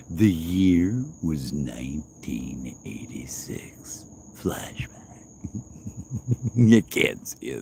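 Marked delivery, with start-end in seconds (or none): 0.1-4.9 slow hushed trailer narration; slow, breathy flashback voiceover; dramatic whisper. Pretend. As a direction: whisper it slowly like a movie intro. Repeats flashback intro.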